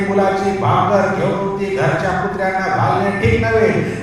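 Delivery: measured Bible reading aloud; sustained, recited scripture delivery. A narrator's reading. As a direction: read the passage out to a congregation. Reads the Bible passage aloud.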